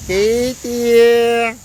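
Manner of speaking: long, stretched-out call. Real, not acted. Spotting Katie in the sea, calling out. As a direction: call the name across the water.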